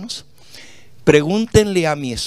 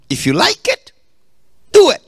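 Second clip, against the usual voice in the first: emphatic slogan repeat; 11 semitones higher, 6 dB louder than usual. Shown as a demonstration.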